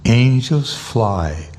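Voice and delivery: reflective. Real, not acted. Repeating the quote to himself.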